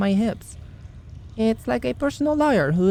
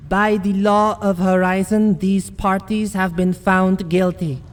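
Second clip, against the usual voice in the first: formal judgment. Acted. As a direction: declare the sentence like a judge of the law. Pronouncing sentence on Rat King.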